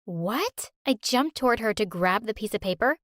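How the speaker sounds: ordinary delivery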